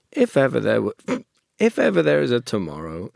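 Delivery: attempted Pooh voice. Shown as a demonstration. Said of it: "I'm just getting into the voice".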